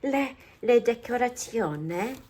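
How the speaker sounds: slow, playful mock Italian accent. Crafter showing off decoration to viewers, slow mock Italian accent. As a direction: draw it out in a put-on Italian accent. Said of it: "I have to listen to some Italian".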